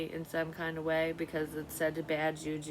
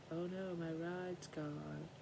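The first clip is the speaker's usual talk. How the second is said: mock freak-out; 6 dB quieter than usual. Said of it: "freaking out".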